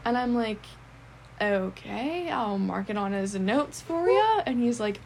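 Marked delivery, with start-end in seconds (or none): 1.4-4.4 skeptical humouring. Retold or imitated. Humouring the odd client.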